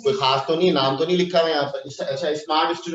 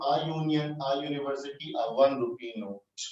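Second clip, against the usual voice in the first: slow dictation; 5 dB quieter, much slower than usual. Shown as a demonstration. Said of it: "इसको लिखेंगे तो".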